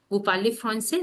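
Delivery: "Vous parlez français" lifting on "français"; rising question tone. Shown as a demonstration. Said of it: "that is a raising tone".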